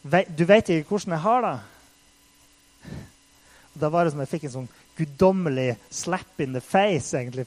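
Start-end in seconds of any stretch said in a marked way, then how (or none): 0.0-1.6 retold angry cry. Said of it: "eller jeg ropte fysisk da".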